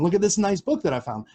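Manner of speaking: put-on jokey, half-hearted Japanese girl quote; Japanese girl impression. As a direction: lift the voice a little as a Japanese girl.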